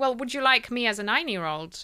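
ordinary talk, nothing marked

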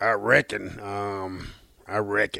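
very slow, deliberate, each word drawn out. Doing a movie line when asked: Karl from Sling Blade impression. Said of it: "Sling Blade, Carl".

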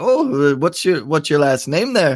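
chatty put-on Irish accent. Retelling what a woman from Ireland asked him: imitating an Irish accent. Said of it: "and she had the accent".

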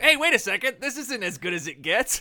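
mock startled, sudden surprised tone. Mocking how someone in a video delivers a line: imitating someone sounding surprised. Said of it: "he says it like".

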